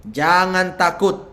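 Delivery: loud, slow, emphatic command; commanding reassurance. Acted. God tells a servant to take courage, commanding reassurance. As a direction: proclaim it slowly and loudly.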